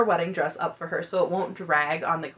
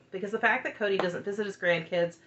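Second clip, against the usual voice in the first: usual speaking voice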